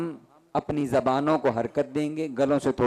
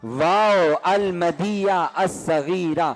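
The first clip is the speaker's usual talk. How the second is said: drawn out, each word stretched, واو المدیہ الصغیرہ; slow recited aloud; slower than usual. Shown as a demonstration. Teacher models for the class how to recite the term slowly. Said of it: "اونچی آواز میں".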